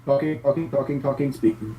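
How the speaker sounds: glitchy call audio; choppy robotic connection. Real, not acted. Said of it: "it's getting better, but it's still a little choppy".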